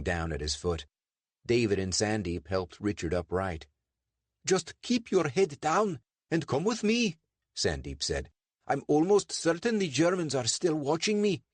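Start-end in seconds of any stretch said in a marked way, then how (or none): 4.4-7.2 high-pitched, urgent character voice; Sandeep, urgent. A narrator's reading. Sandeep leading injured Richard to safety, high urgent voice. Sandeep leads them away. 8.7-11.4 high-pitched, urgent character voice; Sandeep, urgent. A narrator's reading. Sandeep leading injured Richard to safety, high urgent voice. Sandeep fears being watched.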